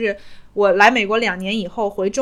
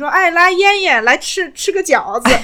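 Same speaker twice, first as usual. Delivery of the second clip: put-on Shandong accent, projected loudly; 9 semitones higher, 5 dB louder than usual. Retelling her grandmother calling her over after making dumplings, Shandong accent. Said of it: "我奶奶是山东口音".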